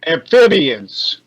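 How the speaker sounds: slow, deliberate correction; cutting in. Acted. Brock correcting Damien's word, cutting in. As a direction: interject with a drawn-out correction. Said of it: "Brock cut in".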